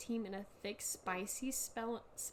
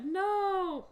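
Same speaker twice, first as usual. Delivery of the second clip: flat no; 7 semitones higher, 7 dB louder than usual. Acted. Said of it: "Giving it no emotion whatsoever".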